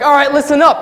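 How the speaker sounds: imitating a boss rallying the team; barking manager. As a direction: call the staff to attention. Manager orders staff to listen.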